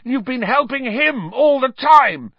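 high, loud accusation; furious yell. A narrator's reading. Harry accusing his teacher of helping the fugitive, yelling. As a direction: yell the betrayal out. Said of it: "Harry yelled".

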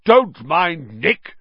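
high, loud, drawn-out call; shouting. A narrator's reading. Severed head calls from the floor, shouting. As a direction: call out jovially and loudly. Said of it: "shouted Sir Patrick's head".

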